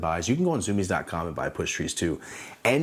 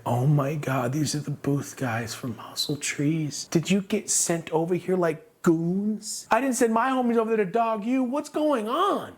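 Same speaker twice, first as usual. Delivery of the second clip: slow, climbing incredulous whine; high-pitched disbelief; 9 semitones higher, slower than usual. Retold or imitated. Confronting rival booth guys, high drawn-out disbelief. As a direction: draw it out, rising higher and higher.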